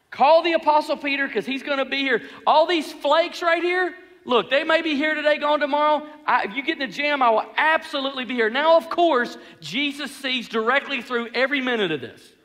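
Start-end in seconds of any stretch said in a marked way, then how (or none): 0.1-8.5 higher-pitched, emphatic boast; bragging. Acted. Peter naming himself the dependable one, bragging. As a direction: talk yourself up with total confidence. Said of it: "He's bragging to Jesus".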